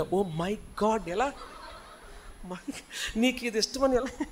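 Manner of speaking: drawn-out gushing Oh my God; overacting girl. Pastor mimicking a girl gushing over a gift, overacted. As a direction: ham up a girl's fake delight. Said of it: "నీ over action నువ్వు".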